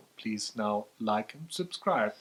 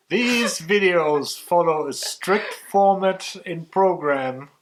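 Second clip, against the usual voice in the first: slow, higher, louder mock-serious announcement; mock formal; 6 semitones higher, 8 dB louder, slower than usual. Husband mock-announcing the show's strict format, slow and grand.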